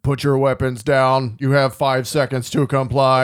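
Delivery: a hint of police-robot voice; lightly imitated robot. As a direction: issue a warning like a machine, lightly acted. Acts the robot's warning from RoboCop.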